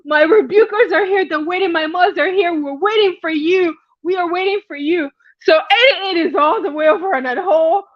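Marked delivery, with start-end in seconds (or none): 0.0-5.1 high, laugh-cracked diva shout; cracking up while playing the queen; laughing mock diva. Diva quote through laughter.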